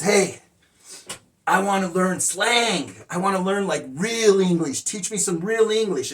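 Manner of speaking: eager and keen, pushing a little. Retold or imitated. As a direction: ask keenly to learn real slang. Amigo eagerly asks for slang.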